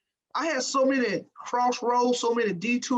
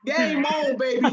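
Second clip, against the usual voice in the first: fired-up challenge; 5 semitones higher, 5 dB louder, slower than usual. Retold or imitated. Retold taunt, accepting challenge.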